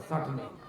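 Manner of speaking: চাটনি with the চ softened to s; soft mock of চাটনি said with s; Assamese চাটনি. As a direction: imitate চাটনি without a proper চ. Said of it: "চ উচ্চারণ করতে পারে না".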